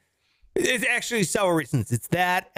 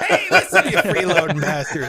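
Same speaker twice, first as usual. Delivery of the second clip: mock yell; 5 dB louder than usual. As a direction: playfully bark at the freeloaders through laughter. Laughing mock scolding of non-paying listeners.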